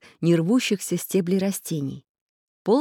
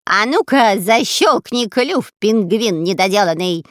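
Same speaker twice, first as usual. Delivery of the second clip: shouting insult; 3 semitones higher, 7 dB louder than usual. Acted. Spy yelling at the parrot. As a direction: yell it at the bird. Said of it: "закричал разбойник Дырка".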